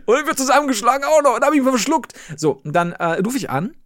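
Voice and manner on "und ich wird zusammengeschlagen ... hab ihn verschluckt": laughing joke. Pretend. Joking, laughing, pitch up.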